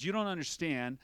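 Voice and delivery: put-on mother explaining to teen, tender and slow; worried mother. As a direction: plead gently with a worried heart. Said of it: "She says".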